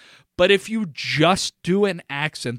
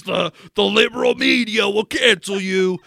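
mock-indignant shout; mock outrage; 4 semitones higher, 4 dB louder than usual. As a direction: cry out in hammed-up alarm. Mock outcry about being canceled.

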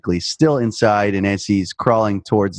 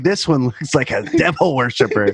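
put-on little girl voice; 2 semitones higher than usual.

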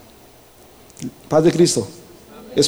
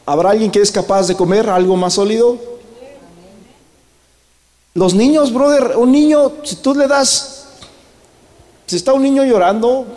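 raised, ringing preacher's voice; preaching at full force; 7 semitones higher than usual. Acted. Pastor preaching to the brothers, raised and fervent. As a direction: preach it out to the whole church.

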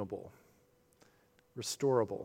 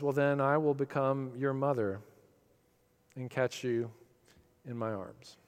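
gentle mother bunny. Acted. Mother bunny's closing promise.

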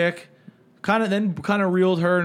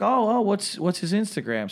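put-on light, higher-pitched Australian accent; 4 semitones higher than usual. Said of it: "Australian accent".

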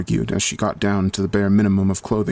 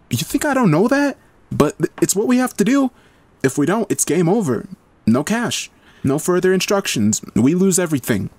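much higher, sharp and cross; scowling Heather; 10 semitones higher than usual. A narrator's reading. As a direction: snap back at her in frustration. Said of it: "Heather scowled".

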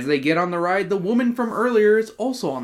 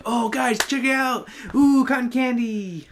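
distracted kid voice; 6 semitones higher than usual. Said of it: "Maybe he was just like".

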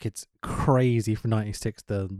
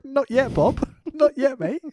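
laughing mock shush; 13 semitones higher, 4 dB louder, slower than usual. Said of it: "They're like".

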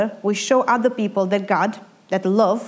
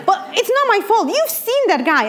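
laughing protest; 11 semitones higher than usual. Retold or imitated. Laughing defense to God.

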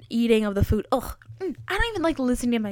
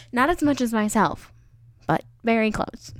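sarcastic. Real, not acted. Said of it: "that was sarcasm".

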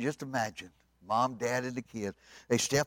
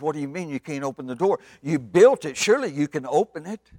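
incredulous protest; 4 semitones higher, 7 dB louder than usual. Acted. Daddy argues with Noah.

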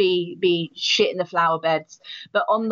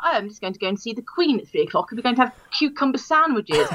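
put-on proper English accent, quick; brisk mock Queen's English; Mary Poppins English; faster than usual. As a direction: play up prim, very English speech. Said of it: "to Mary Poppins".

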